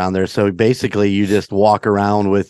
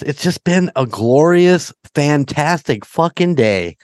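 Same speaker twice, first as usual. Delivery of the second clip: sarcastic enthusiasm; 4 semitones higher than usual. Acted. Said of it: "enthusiasm sounds a little manufactured".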